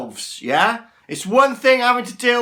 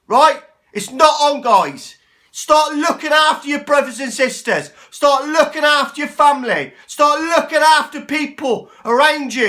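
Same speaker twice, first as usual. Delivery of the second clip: higher and louder, furious at hoarders; angry rant; 4 semitones higher, 4 dB louder than usual. Real, not acted. Ranting at selfish panic buyers, angry and loud. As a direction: let the anger boil over at selfish people. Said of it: "I'm sorry to rant".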